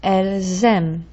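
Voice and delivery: "Elles aiment" with a clear z link; careful demo of the z in "Elles aiment"; plural z liaison. Shown as a demonstration. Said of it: "It's plural".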